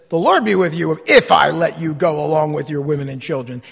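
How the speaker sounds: a king sneering a blessing he doesn't mean; sarcastic. Shown as a demonstration. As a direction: say it sweetly but mean the opposite. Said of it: "but in the proper tone".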